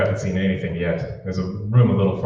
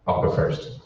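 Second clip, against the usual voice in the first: hushed whisper; 2 semitones lower, 5 dB quieter, slower than usual. Acted. Secret meeting, avoiding being followed.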